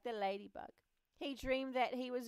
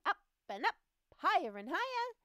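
higher and louder, building up; rising excitement; 10 semitones higher, 8 dB louder, faster than usual. A narrator's reading. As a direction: lift the voice as he flies up. Flying higher and higher.

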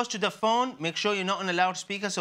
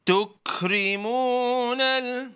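staccato; 4 dB louder, much slower than usual. Shown as a demonstration. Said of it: "One word at a time".

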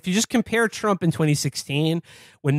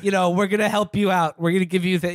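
mock-soothing Trump voice, pitched up; Trump impression; 3 semitones higher than usual. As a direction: coo at the seniors like Trump. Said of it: "he was just like".

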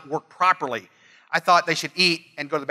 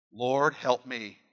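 softly, slowly pleading; a hushed plea to the Lord; quiet slow prayer; 5 semitones lower, 6 dB quieter, much slower than usual. Retold or imitated. Husband praying for help with his spouse, hushed and slow.

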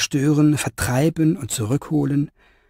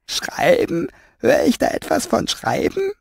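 high, teasing glass-man voice, rising; mocking; 9 semitones higher than usual. The glass man Rosenquarz mocks Fenoglio from behind, high teasing voice. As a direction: needle him with a sneering question. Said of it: "spottete Rosenquarz hinter ihm".

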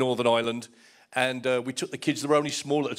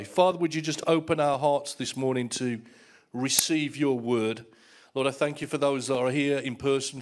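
prayer; 2 semitones lower than usual. Acted. Leads congregation in prayer.

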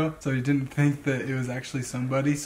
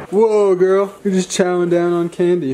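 high, loud amused call to the dog; playfully surprised at the dog; excited; 5 semitones higher, 9 dB louder than usual. Real, not acted. Talking to dog eating candy.

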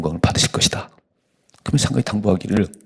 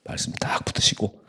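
whispered prayer. Acted. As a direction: pray under the breath. (속삭이듯 드리는 기도)

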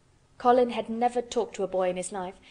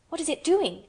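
excited cry; 7 semitones higher than usual. Acted. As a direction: call out in delighted wonder. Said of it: "cried Colin".

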